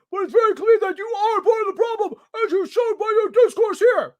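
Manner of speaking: mocking Black's voice. Reads Black's quote mockingly.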